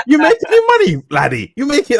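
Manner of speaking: a hint of a Scottish accent, prying; Scottish cabbie. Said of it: "he was like".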